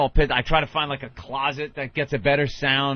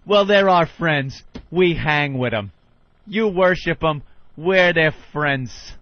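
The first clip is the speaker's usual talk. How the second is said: slow, emphatic one-upping retort; unloading on caller; 5 semitones higher, 4 dB louder, slower than usual. Retold or imitated. Radio host retold one-upping a fan, emphatic put-down. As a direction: spell it out slowly and forcefully. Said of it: "Ronnie just unloads on him".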